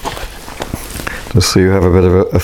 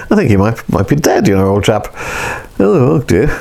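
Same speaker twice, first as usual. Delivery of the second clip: English understatement. Acted. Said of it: "this English understatement".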